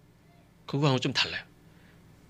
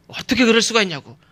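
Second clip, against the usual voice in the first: acted indignant protest, pitched up at the start; mock angry outburst; 7 semitones higher, 4 dB louder than usual. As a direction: lash out at whoever is nearest, half in earnest. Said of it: "제일 만만한 사람한테 화를 내요".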